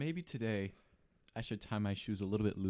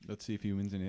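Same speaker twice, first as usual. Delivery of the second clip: talking while chewing; 3 semitones lower, faster than usual. Real, not acted. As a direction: mouth full. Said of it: "I'm sorry, I'm chewing into the microphone".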